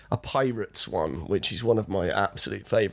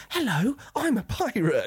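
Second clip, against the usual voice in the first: much higher, cartoonish pirate greeting; high silly pirate; 12 semitones higher than usual. Actor greeting reception children as a pirate, high cartoonish voice. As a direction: squeak it out like a kids' show pirate. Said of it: "normally I'd just be like".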